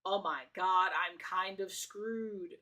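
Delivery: slow, drawn-out dread; imitating a man realising he's caught; mock panic. Streamer voicing the guest's inner panic, slow mock dread. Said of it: "he's panicking because he realized".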